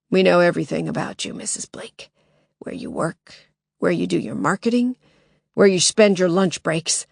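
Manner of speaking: harsh smoker's voice, menacing; menacing intruder. Acted.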